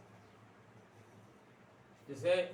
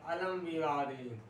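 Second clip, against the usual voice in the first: slow translation; slower than usual. Shown as a demonstration. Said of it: "क्या अनुवाद हो जाएगा?".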